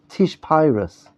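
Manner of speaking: put-on Polish Yiddish-accented Hebrew, "Pyrus" with an eye vowel; Polish Hasidic accent. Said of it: "they speak like this very unique accent in Poland".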